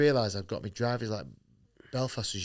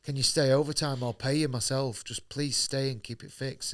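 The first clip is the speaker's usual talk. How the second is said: pleading; 4 semitones higher than usual. Retold or imitated. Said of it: "I was pleading with him".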